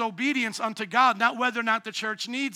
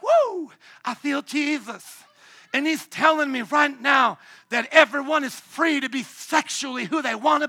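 mock ecstatic prophet; 3 semitones higher, 3 dB louder than usual. Pastor mocks a churchgoer claiming a word from Jesus, hammed-up and loud. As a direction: ham up a fake spiritual word. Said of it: "somebody could be like".

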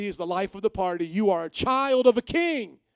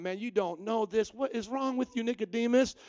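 exasperated Jesus; 4 semitones higher, 3 dB louder than usual. Retold or imitated. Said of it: "Jesus starts breaking it down".

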